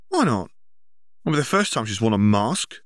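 mild mock sneer; sneering jab. Brother taunts brother about girlfriend, snide.

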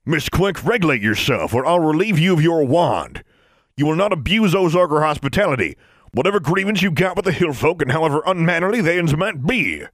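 an elder laying down the law; loud stern bellow; bellowing rebuke. A narrator's reading. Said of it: "Noah bellowed".

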